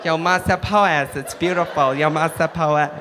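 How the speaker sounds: earnest American trying out foreign phrases; American learner proudly testing new words; American accent. Acted. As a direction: imitate a trusting American tourist. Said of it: "cool to hear an American going".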